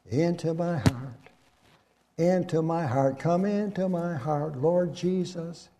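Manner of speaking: put-on soft, lilting prayer as if teaching a small child; childlike prayer chorus. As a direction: gently lead a child through the prayer. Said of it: "when we teach our children".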